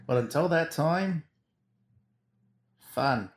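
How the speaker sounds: distant, off-mic voice; talking from across the room; far from mic. Real, not acted. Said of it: "You sound so far away".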